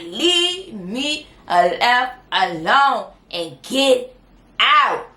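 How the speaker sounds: mock fury, slow and punched word by word; furious. Wife orders husband to get out, furious. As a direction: draw out each word like an imitated fed-up wife. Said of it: "Chantel was furious".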